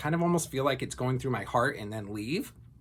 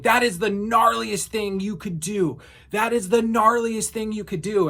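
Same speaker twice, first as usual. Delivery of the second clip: higher, louder mock rant at a stranger; imitating angry yelling; 7 semitones higher, 4 dB louder than usual. Stranger yelling at her outside store, imitated angry shout. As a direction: replay the man's outburst with heat. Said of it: "he's screaming at me saying".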